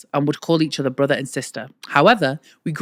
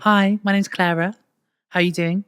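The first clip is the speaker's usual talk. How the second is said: lightly voiced posh Clara; slightly posh, a touch higher introduction; posh Clara impression; 3 semitones higher than usual. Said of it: "you sound a bit more like this".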